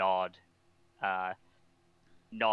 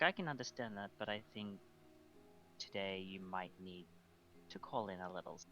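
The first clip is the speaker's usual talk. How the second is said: gentle persuasion; 12 dB quieter, faster than usual. Acted. In-character gentle persuasion of Emmanuel.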